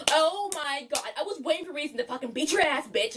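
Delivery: lightly hammed-up indignant threat; mock angry threat. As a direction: imitate a rival spoiling for a fight. Acting out Sarah's threat in quarrel.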